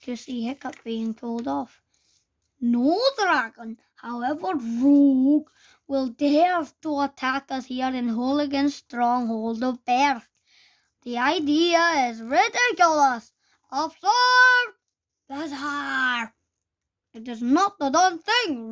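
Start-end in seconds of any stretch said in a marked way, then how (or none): 2.6-16.3 blustering teacher. Acted. Teacher dismissing threat, lecturing. 17.1-18.7 roar. Acted. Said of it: "roared Gober".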